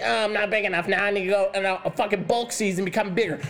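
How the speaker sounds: lightly voiced whiny gym bro; a hint of a gym bro complaining; mock gym bro. Coach mocking clients who bulk, lightly voiced gym bro.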